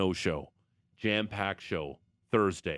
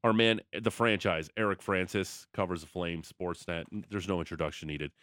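big announcer voice; 2 semitones lower than usual. Acted. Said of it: "big announcer, voicer guy thing".

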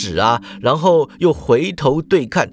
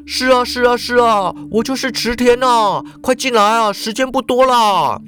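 higher, insistent middle-aged man; eager, hurried boss; 6 semitones higher than usual. A narrator's reading. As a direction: usher the visitor in impatiently. Ikeda hurries the visitor in. (热切催促的中年社长)

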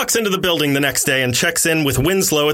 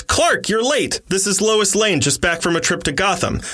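gruff boss; 6 semitones higher than usual. A narrator's reading. Boss Perry scolding late Clark.

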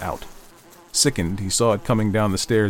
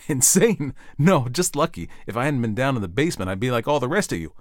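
slightly urgent, higher-pitched rebuttal; insistent Ed; 6 semitones higher than usual. Acted. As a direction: counter the doubt with pressing conviction.

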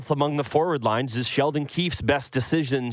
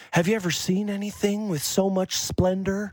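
lightly voiced android in awe, higher; a wide-eyed robot marvelling, higher pitch; 7 semitones higher than usual. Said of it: "the robot is just like".

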